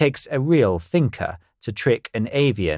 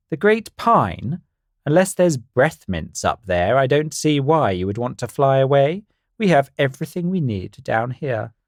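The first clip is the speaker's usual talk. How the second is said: high bird voice; 4 semitones higher than usual. Acted. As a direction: play a silly know-it-all bird. Carl voiced in story.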